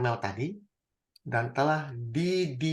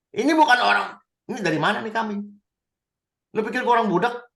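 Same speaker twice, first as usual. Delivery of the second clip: sarcastic jab; 5 semitones higher, faster than usual. Acted. Acted sarcastic Samuel.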